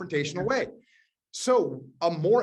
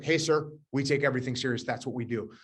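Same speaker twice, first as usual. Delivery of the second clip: earnest, understated answer, trailing lower; serious reply; 5 semitones lower than usual. Retold or imitated. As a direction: answer the jibe in earnest, keeping it low-key. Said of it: "I met his sarcasm with seriousness".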